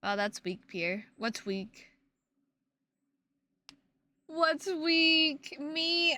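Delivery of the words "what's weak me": mock offended. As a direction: act insulted.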